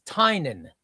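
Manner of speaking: Tynan said TIE-nun, two syllables; correct name pronunciation. Shown as a demonstration. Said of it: "tell us how to pronounce".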